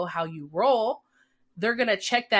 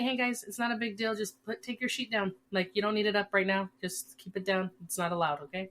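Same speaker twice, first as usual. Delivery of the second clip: relaxed and friendly. Retold or imitated. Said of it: "Or if you just say".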